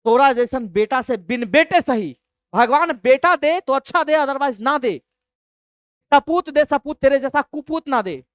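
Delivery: father disowning his son in rage; a father yelling at his son, hammed-up anger; angry father. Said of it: "बड़ा तगड़ा level पे गुस्सा आया".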